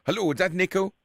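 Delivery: put-on a prank caller in a lightly done Irish accent; a hint of an Irish accent, asking a favour. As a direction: play Willie Fitzgerald, a chatty Irish fella, with a light Irish lilt. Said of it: "including me being an Irishman".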